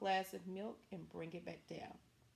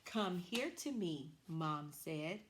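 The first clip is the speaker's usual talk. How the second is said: slow model reading; slower than usual. Shown as a demonstration. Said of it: "decide on which one goes at the end".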